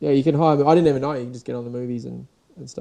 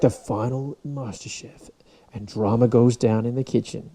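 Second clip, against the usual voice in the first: trailer voice; slower than usual. Retold or imitated. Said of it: "it's always like".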